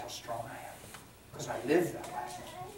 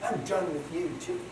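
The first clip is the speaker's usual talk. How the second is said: bitter prayer; 2 semitones higher, 3 dB quieter, slower than usual. Retold or imitated. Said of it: "she said".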